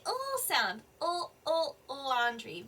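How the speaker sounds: "L" as a held bare sound, then "laundry". Shown as a demonstration. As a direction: repeat the sound of "L" alone before saying "laundry". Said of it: "The L sound".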